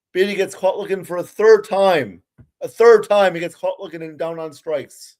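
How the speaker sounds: can't believe it's happening again; exasperated call. Real, not acted. Batter struck out again.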